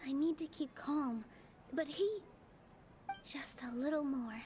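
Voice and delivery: quiet self-talk, breathy at the end; steady herself under her breath; a whispered reminder to stay calm; hushed to herself. Real, not acted. Private resolve before speaking.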